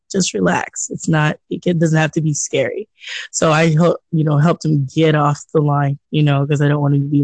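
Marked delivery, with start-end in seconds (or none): 0.1-2.9 reassuring. Retold or imitated. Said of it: "I said".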